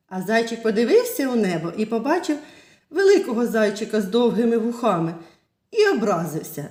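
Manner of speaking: put-on lively storytelling voice for little kids; fairy tale narration. Teacher telling children a fairy tale, lively storytelling. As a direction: tell it like a bedtime tale.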